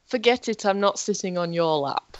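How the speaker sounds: lightly voiced Austrian action hero; Arnold Schwarzenegger. Feeding friend Arnie quotes, light action-hero impression. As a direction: deliver it as a mild film-star impression. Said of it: "that sounded so much like Arnie".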